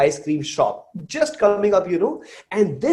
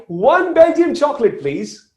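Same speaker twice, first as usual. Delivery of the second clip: raised, high-pitched order call; shouting from outside; 10 semitones higher, 5 dB louder than usual. Retold or imitated. Mother ordering ice cream through a half-open door, shouting. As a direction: call it out loudly across a shop. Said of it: "So she shouts from outside".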